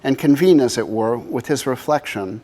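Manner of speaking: measured reading in phrases set apart by pauses; poetry reading. Acted. Artist reads the poem at the book's first presentation, measured poetry reading. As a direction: read it as verse, leaning into each phrase opening.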